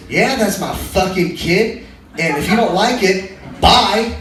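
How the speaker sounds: punchy mock-defiant girl, drawn out; imitating a blunt, take-it-or-leave-it woman; defiant retort. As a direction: lay it down like a challenge, leaning on the last word. Acted defiant dating profile quote.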